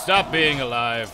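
slow, loud tyrant shout; villain taunt. Pretend. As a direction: roar it like a cruel warlord. Villain taunting game enemies.

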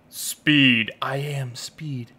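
slow, hushed whisper; whispered catchphrase. Acted. Player psyching up with "I am speed", whispered. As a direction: whisper it slowly like a mantra.

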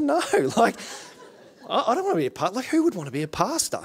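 high, giggling refusal; laughing disbelief. Retold or imitated. Telling the congregation his refusal, laughing. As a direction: chuckle through the absurd idea.

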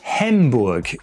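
"Hamburg" said as Germans hear a Briton say it; slightly wrong-vowelled "Hamburg"; misheard German Hamburg. Retold or imitated. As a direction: imitate the off-target vowel in "Hamburg". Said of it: "Germans tell me that they hear me saying".

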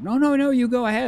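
high, squeaky mock politeness; mock polite. Streamer pretending to yield the riddle, high squeaky voice. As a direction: hand it over in a squeaky falsetto. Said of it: "I was like".

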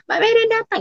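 imitated glad welcome in a high pitch; happy greeting. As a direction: echo the host's pleased announcement, pitched high. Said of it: "seneng gitu". (menirukan sambutan senang bernada tinggi)

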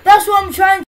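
exasperated retort. Real, not acted. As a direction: protest loudly, fed up. Snapping back in frustration.

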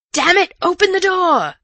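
high, furious shouted demand; loud angry shout. A narrator's reading. Man shouting at the locked door, loud and angry. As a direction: shout angrily to be let in. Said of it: "came the voice again".

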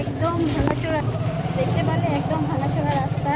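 talking while the car shakes; on a bumpy road. Real, not acted. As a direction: voice jolted by a bumpy ride. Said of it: "প্রচণ্ড ঝাঁঝি লাগছে". (ভাঙা রাস্তায় ঝাঁকুনি খাওয়া গলা)

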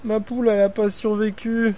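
crié haut, outré; indignation criée. Real, not acted. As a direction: lamentation forte et indignée. Poule morte, il s'indigne. (plainte criée et outrée)

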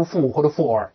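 负 or for, the final L lost; mispronounced "full" endings. Shown as a demonstration. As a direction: show the wrong endings, 负 with no L, for with an R. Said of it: "不要读负或者for啊". (错读full：读成“负”或者“for”，没有L音)

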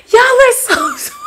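high, giggling through the words; touched laugh at a fan's comment. Real, not acted. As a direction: laugh while you say Y'all are so sweet. Reacting to compliments.

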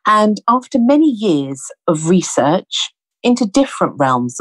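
measured presenter's welcome with deliberate pauses; podcast introduction. Real, not acted. Host welcoming listeners and introducing her returning guest, measured presenting. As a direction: introduce the show in unhurried, spaced phrases.

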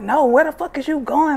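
retold demand. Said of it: "I'm like".

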